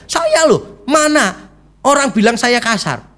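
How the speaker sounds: high, offended protest; indignant denial. Retold or imitated. Husband protests to the pastor that he is not harsh, indignant and high. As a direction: sound wronged and defensive. Husband denies wife's accusation.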